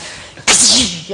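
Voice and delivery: imitated whip crack noise. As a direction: make a sharp, loud whip noise. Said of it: "I whipped this lion".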